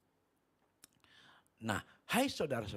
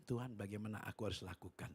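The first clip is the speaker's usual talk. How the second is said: softer, hushed question to God; retold prayer; 2 semitones lower, 7 dB quieter than usual. Preacher retells asking God what to do, hushed prayer. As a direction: ask God quietly for guidance. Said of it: "saya berdialog dengan Tuhan".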